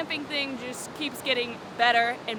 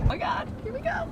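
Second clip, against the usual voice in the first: excited; 4 dB quieter, faster than usual. Real, not acted. Starting a water crossing in truck.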